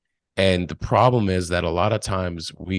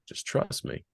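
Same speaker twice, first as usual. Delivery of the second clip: whisper; 12 semitones higher, 9 dB quieter than usual. Pretend. Soul's voice whispering reassurance.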